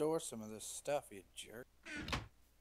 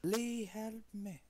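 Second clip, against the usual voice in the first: whiny plea for help; 7 semitones higher, much slower than usual. Pretend. Stuck, calling for help.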